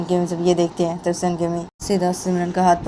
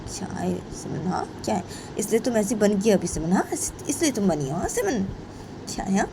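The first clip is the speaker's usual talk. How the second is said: subdued questioning mother; 3 semitones higher than usual. Acted.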